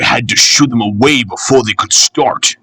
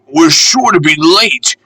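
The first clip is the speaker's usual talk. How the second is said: frantic, higher, with stress on "sure"; anxious puffing cry leaning on "sure"; frantic panting; 6 semitones higher than usual. A narrator's reading. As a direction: push the word "sure" in a worried rush. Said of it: "panted Peter Sam frantically".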